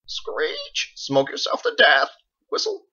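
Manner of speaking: very high screeching bird voice; parrot squawk. Acted. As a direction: squawk it like a macaw.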